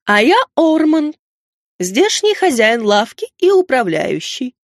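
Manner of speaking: slow, pompous owl introduction; self-important owl. A narrator's reading. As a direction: introduce yourself grandly, drawing out the words. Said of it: "с важным видом представилась".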